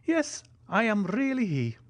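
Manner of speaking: put-on high, joyful old major voice; joyful Italian. A narrator's reading. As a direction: beam as the old major confirms it. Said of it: "joyfully replied the Italian".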